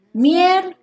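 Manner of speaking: "Miércoles" in three separate syllables, MIÉR high and long; MIÉÉR... co... les, spelled out by syllable; split into syllables. Shown as a demonstration. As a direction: stretch "Miér" high, pause, then "co", pause, "les". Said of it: "Escribe las sílabas de la palabra".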